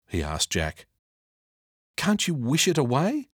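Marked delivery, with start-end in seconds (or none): 2.0-3.3 put-on higher boy's voice asking; a kid hoping for a shortcut; hopeful boy. Jack asks the genie to wish the mess away.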